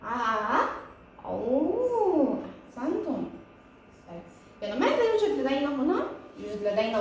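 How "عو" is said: "عو" as ain gliding into a held oo; ain with long oo. Shown as a demonstration. Teacher reading ain with waw madd, "عو" held long. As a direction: stretch the oo of "عو" in a rise and fall. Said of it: "حرف العين مع مد الواو".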